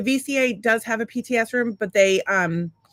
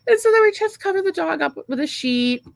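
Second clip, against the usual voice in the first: laughing; 9 semitones higher than usual. Real, not acted. Laughing while telling dog burial.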